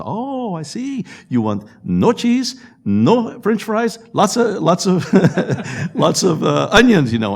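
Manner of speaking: high-pitched, mock Asian accent imitation of the cashier; stereotyped Asian accent. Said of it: "forgive me for being stereotypical".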